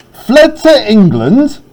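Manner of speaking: high, slow stunned question; shocked disbelief. Acted. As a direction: let the news hit him. Voicing Macbeth's shock.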